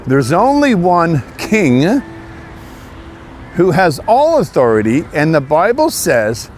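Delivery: slow, solemn sermon warning; a hint of a preacher's warning; preaching. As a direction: call sinners to judgment, measured and grave. Preaching to scammers about God.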